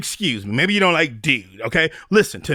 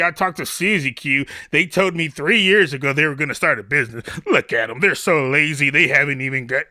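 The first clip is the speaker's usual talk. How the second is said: lightly voiced gossip, chatty and judging; gossip judging laziness; 2 semitones lower than usual. Neighbours gossiping that they never started the business, judging. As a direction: do a gossiping neighbour calling them lazy. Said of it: "But then, if you don't".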